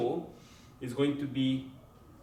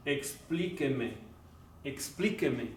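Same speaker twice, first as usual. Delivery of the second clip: slow teaching demo; 4 dB quieter, slower than usual. Shown as a demonstration. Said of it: "the patient might tell you this".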